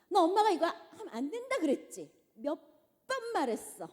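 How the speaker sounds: loud, high, half-laughing scolding; a mother scolding her child loudly, with a laugh; showy scolding. Acted. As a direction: scold for the in-laws to hear. Mother scolding child in front of family.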